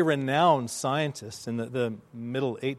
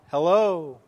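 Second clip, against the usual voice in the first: drawn-out call, a little less loud; imitated echo reply; 2 semitones higher, 5 dB louder than usual. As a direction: play the valley answering back. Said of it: "the reply".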